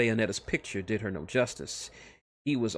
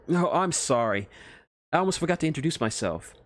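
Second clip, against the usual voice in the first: higher, eager, flustered scientist; a lightly higher nervous nerd; nervous Otacon voice; 6 semitones higher, 4 dB louder than usual. Acted. Scientist flustered meeting Snake's friends, higher nervous voice.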